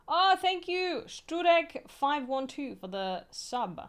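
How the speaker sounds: thrilled, high and loud thanks; excited thanks. Real, not acted. Streamer excitedly thanks a subscriber for six months. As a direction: gush over the sub.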